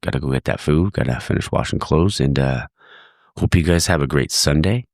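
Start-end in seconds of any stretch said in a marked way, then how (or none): 3.4-4.9 stuffy congested voice. Real, not acted. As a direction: speak through a stuffy nose. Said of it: "Sorry if I sound a little congested".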